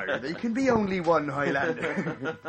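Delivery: put-on slow, rural accent with a laugh; farmer voice. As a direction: drawl the movie line like a farmer. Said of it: "you just sound like a farmer".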